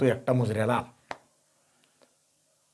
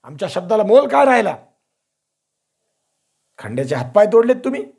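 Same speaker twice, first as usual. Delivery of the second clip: sulky reproach; 7 semitones higher, 5 dB louder than usual. A narrator's reading. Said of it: "रुसाईच्या बोलीनं Kanhoji बोलले".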